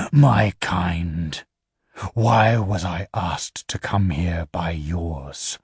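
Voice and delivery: low, measured voice of an alien being; low infernal voice. Acted. The infernal questioning the Empire's envoys, low and measured. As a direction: speak down low like something not human.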